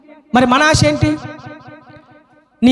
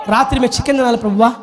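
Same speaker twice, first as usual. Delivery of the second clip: mock petitioner; much faster than usual. Mimics petty tearful prayer requests.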